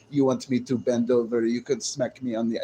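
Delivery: dude-like Russian woman impression; mock Russian accent. Streamer mocking how Russian women sound, mock Russian accent. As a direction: imitate a mannish Russian accent. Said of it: "They sound like a dude sometimes".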